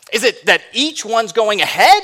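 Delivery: questioning emphasis on AHEAD; stress on EACH and AHEAD. Shown as a demonstration. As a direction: lean on "going ahead" as the suspected problem. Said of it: "put the emphasis on a different word".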